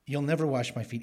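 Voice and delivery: mildly emphatic quoted refusal, weight on "never"; understated insistence on "never". Retold or imitated. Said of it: "It's emphatic".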